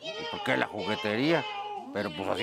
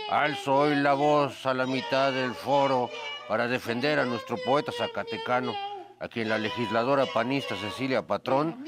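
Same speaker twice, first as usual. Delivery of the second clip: grand poetry declamation. Acted. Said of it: "para declamar a López Velarde".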